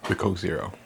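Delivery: words broken by a burp. Real, not acted. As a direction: say it through a small burp. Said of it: "I'm burping a lot because of".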